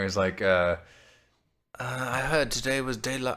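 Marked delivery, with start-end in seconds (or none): 1.8-3.3 attempted New Zealand accent. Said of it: "I don't know why I'm doing".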